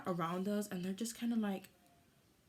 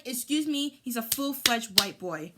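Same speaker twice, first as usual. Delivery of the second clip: indignant outburst; 3 semitones higher, 6 dB louder than usual. Retold or imitated. Indignant retort retold.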